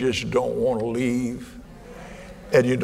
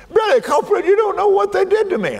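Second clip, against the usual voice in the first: high, whining complaint, hammed up; squeaky mock plea to the preacher; mock whiny churchgoer; 4 dB louder, faster than usual. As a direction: play the self-pitying member of the congregation.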